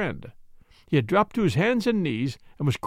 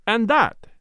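higher, punchy triumphant question; triumphant cry; 6 semitones higher, 4 dB louder than usual. A narrator's reading. Detective showing his second find, a triumphant cry. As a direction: toss it out in triumph. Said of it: "he cried triumphantly".

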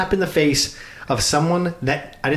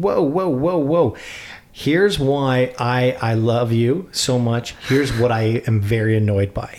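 mock calm-down; slower than usual. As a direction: ease her down, then spell out the grievance. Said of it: "I'm sitting here thinking".

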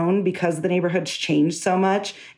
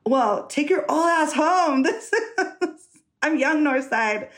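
slow sassy retort with a laugh; sassy retort, laughing midway; sassy comeback; 7 semitones higher, slower than usual. Retold or imitated. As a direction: talk back to the old man, mocking. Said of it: "And I was like".

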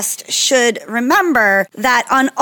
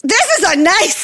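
laughing; 8 semitones higher than usual. Real, not acted.

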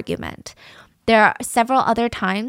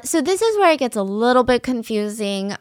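ordinary talk, nothing marked

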